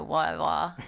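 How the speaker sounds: light Cockney, dropping the t in "whatever"; Cockney accent. Shown as a demonstration. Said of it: "the Cockney accent, a little more like".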